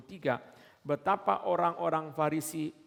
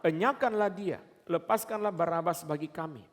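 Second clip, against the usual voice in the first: mock crowd shout; 2 semitones higher than usual. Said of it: "Tetapi mereka berteriak bersama-sama".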